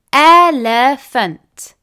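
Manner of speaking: Elephant said slowly, split as el-e-phant; syllable by syllable. Shown as a demonstration. Teacher showing pupils the three syllables, slow and split apart. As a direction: stretch out Elephant so each of its three beats is heard. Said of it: "therefore there are three syllables".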